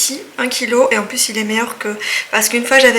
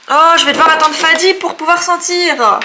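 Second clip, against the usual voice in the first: louder, higher whiny complaint; disappointed whine; 6 semitones higher, 6 dB louder than usual. Real, not acted. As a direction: whine about having to wait. Gives up on opening candle. (plainte déçue)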